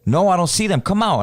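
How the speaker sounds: retold yelling. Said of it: "I'm still yelling".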